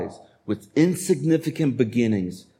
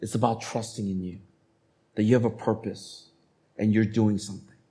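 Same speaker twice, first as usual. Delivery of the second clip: quiet prayer; 5 dB quieter than usual. Retold or imitated. Believer quietly realizing life is about faith, tender. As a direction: pray it softly to God. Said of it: "That's when you realize".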